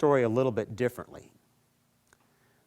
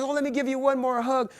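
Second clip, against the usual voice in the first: giant woman insisting; 13 semitones higher, 6 dB louder than usual. Acted.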